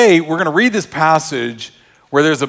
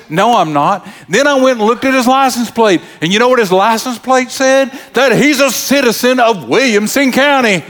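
high-pitched, comic officious woman; imitating the dump guard; 7 semitones higher than usual. Dump guard reports on the previous driver, imitated high officious voice. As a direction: tell the tale as the suspicious little gatekeeper. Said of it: "She talked like that".

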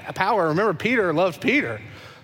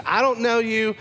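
raised, heated denial; angry denial; 5 semitones higher than usual. Acted. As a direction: shove the accuser away. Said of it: "Peter denies Jesus".

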